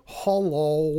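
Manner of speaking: lightly mimicked drawn-out hello; mocking impression. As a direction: do a light imitation of his hello. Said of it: "You went".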